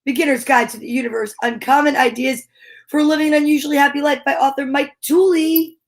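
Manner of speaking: showy title reading; grand announcement. Acted. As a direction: announce the book like a showman.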